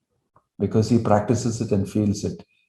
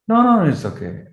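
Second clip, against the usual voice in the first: higher gentle reassurance; 9 semitones higher, 3 dB louder than usual. Retold or imitated. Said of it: "Haridas Thakur will tell".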